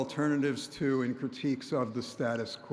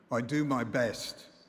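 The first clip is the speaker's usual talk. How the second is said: unhurried, slow, put-on British accent. Retelling a musician's reply in a waiting room: softly imitating a british accent. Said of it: "softly replied in his familiar British accent".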